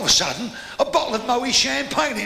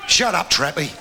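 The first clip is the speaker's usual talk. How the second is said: shout; 6 semitones lower than usual. Real, not acted. Heckler cut off mid joke.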